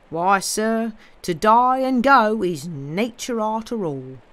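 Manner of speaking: homely dialect voice, respectfully matter-of-fact; rustic companion. Acted. Job answers the gentleman about death, homely and rustic. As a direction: play a plain-spoken countryman.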